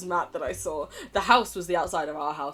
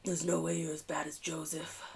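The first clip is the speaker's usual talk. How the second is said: whispered character line; hushed aside; 3 semitones lower, 7 dB quieter than usual. Acted. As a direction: say it under your breath, almost voiceless. Character reassures player about poker.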